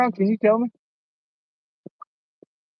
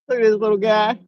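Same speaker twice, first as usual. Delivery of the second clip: higher, bubbling with delight; excited; 5 semitones higher than usual. Real, not acted. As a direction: gush over the little fish. Delighted over first catch.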